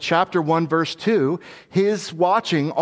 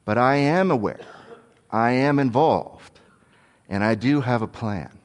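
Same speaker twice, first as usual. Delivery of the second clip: reassuring; 2 semitones lower than usual. Acted. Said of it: "He's saying".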